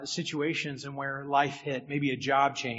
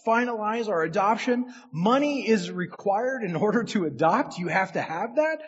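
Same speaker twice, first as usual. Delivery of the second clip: louder, higher, rushed worry; panicked thoughts; 4 semitones higher, 6 dB louder than usual. Retold or imitated. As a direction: spill the retold panic out fast. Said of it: "I was panicking".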